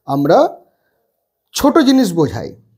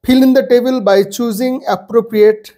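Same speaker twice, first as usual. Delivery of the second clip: reading the instruction aloud; 4 semitones higher, much slower than usual. Shown as a demonstration. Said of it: "instruction নিজে পড়বে".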